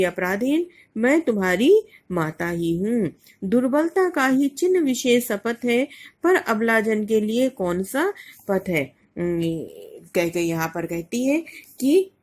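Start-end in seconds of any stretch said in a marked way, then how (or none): 3.4-8.8 measured verse, rising and falling; a teacher's lilting verse reading; poem recitation. Acted. Recites next verse couplet.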